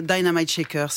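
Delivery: The band name said the English way, dai-na-mait; English pronunciation. Shown as a demonstration. Host correcting how the band name is said. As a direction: say "Dynamite" with English vowels, not French. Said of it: "on prononce le Y et le I".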